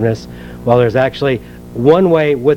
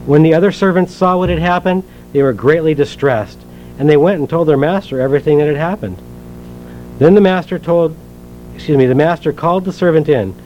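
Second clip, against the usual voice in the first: measured, earnest Bible reading aloud; scripture reading. Acted. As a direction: read the parable to the congregation, steady and clear. Reads the parable from Matthew.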